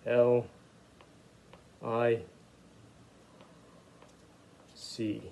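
L, I, C named one at a time; spelling letters. Shown as a demonstration. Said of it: "I'll sound it out as we go along".

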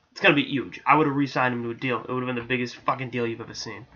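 lightly voiced brash Trump boast, Queens accent; a hint of bragging Trump swagger; Donald Trump. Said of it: "I'm sounding like Donald Trump right now".

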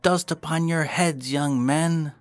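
high, carrying cry. Acted. Mice fleeing a battle they think lost, crying out. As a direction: call out high to the fleeing troops. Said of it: "crying out".

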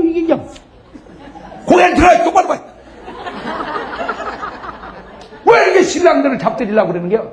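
worked-up, high-pitched rebuke; scolding. Real, not acted. Preacher mock-scolds wives in congregation.

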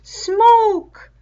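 high loud shout, falling at the end. A narrator's reading. Savage calling to others as fire spreads, loud shout. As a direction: yell it out to the hunters. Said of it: "and a voice shouted".

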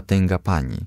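usual speaking voice

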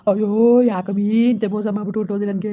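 comic lament for a runaway wife, half-sung; hammed-up crying over his loss; mock wailing. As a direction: ham up the grief of a jilted husband. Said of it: "ಮಾವ, ಅಳ್ಬೇಡಿ".

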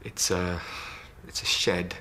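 low, hesitant, with long pauses; halting recall. Acted. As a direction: feel your way through a dark memory, stopping and starting. Patient haltingly recalls a dark memory.

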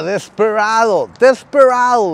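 drawn-out English-style Desperado; showy English pronunciation of the name. Shown as a demonstration. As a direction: stretch out Desperado with an English accent. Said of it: "lo estoy diciendo en inglés".

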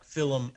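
film as two syllables, "Fillum"; old Melbourne way of saying Fillum; grandmother's old-style pronunciation. Retold or imitated. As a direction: slip a vowel into film: Fillum. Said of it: "my grandmother used to say".

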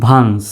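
"ভান্স" ending on the s; without final d. Shown as a demonstration. Teacher showing the word without its d, "ভান্স" ending on s. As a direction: say "ভান্স" as vans, no stop after it. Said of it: "যদি ডিটা না থাকতো".

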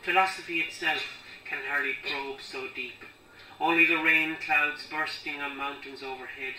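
measured recital in spaced phrases; poem reading. Acted. Poet reading about sorrow for parents, measured deliberate recital. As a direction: let each line of verse stand apart.

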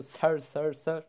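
sir said in English, a little apart from the Turkish; saying sir. Shown as a demonstration. Showing how students address the professor here, English sir. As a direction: repeat sir, sir, sir the way students call the teacher. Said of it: "Sir diyoruz yani burada".

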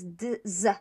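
"d, z" split, one after the other; two sounds in turn. Shown as a demonstration. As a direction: say "d" then "z", both voiced. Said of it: "One after the other".

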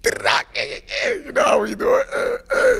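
ad-lib shout. Real, not acted. Shouting his signature ad-lib.

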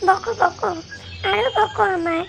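whiny put-on tears, rising at the end; fake crying. Daughter fake-crying at scolding mother, whiny sob. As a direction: sulk and sob to win sympathy. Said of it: "কাঁদে না, কাঁদে না".

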